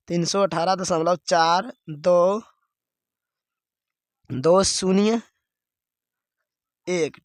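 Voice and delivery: slow, with pauses between चार, दो, शून्य, एक; slow teaching read, every digit after दशमलव separated. Shown as a demonstration. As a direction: break the digits after दशमलव one at a time. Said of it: "इसको ऐसे पढ़ेंगे".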